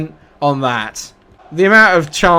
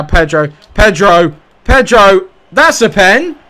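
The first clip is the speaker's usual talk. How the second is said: name calls climbing higher and louder; building excitement; 5 semitones higher, 7 dB louder than usual. Real, not acted. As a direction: build each call up to a loud penalty claim. Calling an attack, claiming penalty.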